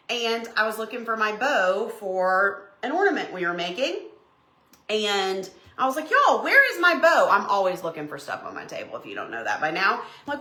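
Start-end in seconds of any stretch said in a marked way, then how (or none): 6.1-7.3 higher, louder call to the room; mock searching. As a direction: ask it like a flustered search. Acts out searching for bow.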